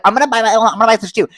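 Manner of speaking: high, fast eager voice; excited announcement. Retold or imitated. To self after doing taxes, giddy excitement. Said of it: "and I was like".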